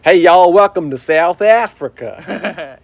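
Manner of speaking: put-on slow, drawn-out South African accent with a Southern twang; mock South African accent, drawn out; Southern-tinged South African accent. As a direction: greet like a South African tour guide, slow. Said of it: "They have a Southern accent".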